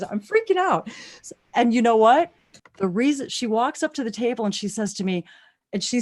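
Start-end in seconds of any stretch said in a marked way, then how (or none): 0.0-0.9 high, giddy excitement; freaking out. Real, not acted. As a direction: squeal it, overwhelmed with excitement. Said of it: "I'm freaking out, you guys".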